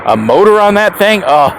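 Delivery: acted disbelief, rising on the question; mock scandalized. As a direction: imitate an appalled cycling purist. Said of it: "to the older crowd that".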